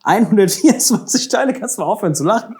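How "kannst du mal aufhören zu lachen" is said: giggling. Real, not acted. Giggling while scolding partner.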